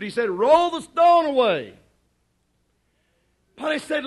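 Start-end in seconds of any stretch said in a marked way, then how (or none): 0.3-1.7 raised, louder command; Jesus ordering the stone moved, forceful; firm command. Shown as a demonstration. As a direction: call it out so the tomb hears. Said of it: "To prove to you that that was her attitude".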